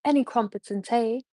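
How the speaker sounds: her favourite British phrase in a light posh British accent. Shown as a demonstration. Showing chat her go-to British line, light British accent. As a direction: lean into the British accent on crumpets and tea. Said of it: "there's one thing I like to say is".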